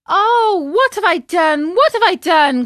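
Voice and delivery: loud, high wail of dismay; panicked, high-pitched outcry; anguished cry. A narrator's reading. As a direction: cry out in despair. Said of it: "cried Pinocchio".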